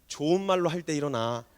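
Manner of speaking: low, restrained warning; patience running out. Acted. Mother at the limit of patience, low warning to wake up. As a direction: hold the anger down in a low voice. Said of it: "인내심의 한계 지점에 도달했을 때".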